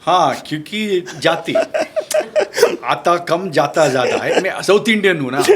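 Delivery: talking through laughter; chuckling while he speaks; laughing. Real, not acted. Jokes about his own Hindi.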